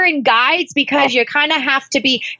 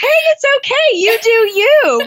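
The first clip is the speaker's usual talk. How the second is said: caregiver voice; 11 semitones higher than usual. Retold or imitated. Inner caregiver soothing the listener, high and kind. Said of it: "your caregiver was trying to say".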